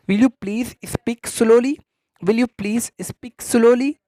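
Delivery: very slow, careful teacher read; slow model phrase. Shown as a demonstration. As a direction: repeat it slowly for students to copy. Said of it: "तो आप उसको बोलेंगे". (धीमा, साफ़ उच्चारण)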